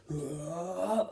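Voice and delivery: drawn-out yell rising in pitch; anime battle cry. Retold or imitated. Imitating Jotaro in the anime intro, rising cry. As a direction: imitate a building "whoaaa" power-up. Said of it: "suddenly he goes".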